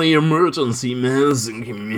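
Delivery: lightly put-on West Coast voice; Californian accent. Shown as a demonstration. Reading the quote in a doctor's Californian accent. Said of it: "he's from California, right?".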